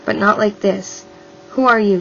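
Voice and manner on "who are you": loud demand, stress on who; harsh shout. Acted. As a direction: bark the question. Abductor repeats question.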